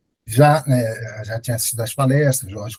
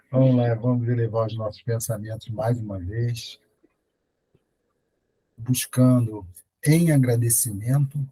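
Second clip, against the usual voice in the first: closing prayer; 3 semitones lower than usual. Acted. Leader closing the spiritual meeting with a calm, measured prayer. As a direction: lead the group gently in prayer.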